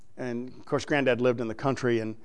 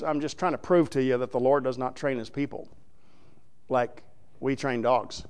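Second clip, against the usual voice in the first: ordinary talk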